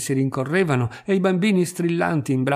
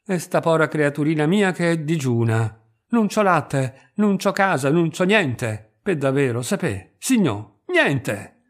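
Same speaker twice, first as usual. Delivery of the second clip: Tuta, pitiful begging; 2 semitones higher than usual. Acted. Tuta begs with pitiful list.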